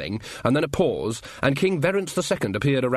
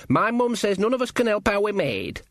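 higher, guileless country lad; Sean's character voice; 9 semitones higher than usual. A narrator's reading. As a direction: pitch it up as an eager, simple lad. Voices Sean in the story.

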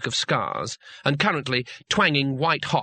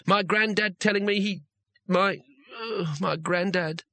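put-on nervous young wizard; 5 semitones higher than usual. Rincewind gabbles about the legend.

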